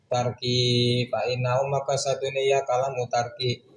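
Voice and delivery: chanted Arabic text with word-by-word Javanese gloss; kitab recitation. Acted. Teacher reading the Arabic kitab aloud to students, chanted recitation. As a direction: intone the classical text like a pesantren teacher.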